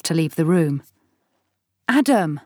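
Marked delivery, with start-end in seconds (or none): 1.9-2.4 calling out. Acted. Wife calling after husband.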